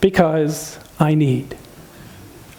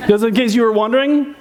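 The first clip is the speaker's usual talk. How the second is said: laughing; 3 semitones higher than usual. Real, not acted.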